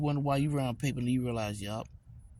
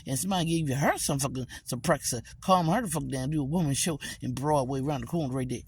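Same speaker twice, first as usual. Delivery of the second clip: imitating her. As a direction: squeak it out, fast and mocking. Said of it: "That's how she talk".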